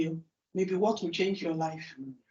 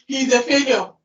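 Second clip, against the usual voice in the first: mocking laugh; 5 semitones higher, 6 dB louder than usual. Mocking a snap judgement.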